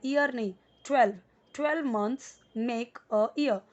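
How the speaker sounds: ट्वेल्व said carefully, clearly twelve, slowly; correcting pronunciation. Shown as a demonstration. Teacher correcting how learners say the number. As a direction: stress the ट्वेल्व sound, then read the sentence slowly. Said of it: "ईयर नहीं बोलना है".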